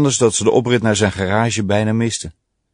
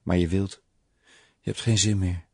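whisper in his ear; 8 dB quieter than usual. A narrator's reading. Woman doubting her lover's desire, in a soft whisper. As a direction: keep it down, intimately close. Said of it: "fluisterde ze in zijn oor".

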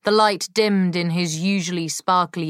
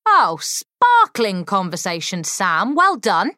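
sarcastic; 3 semitones higher, 4 dB louder than usual. Acted. Molly mocks Sam's stammering.

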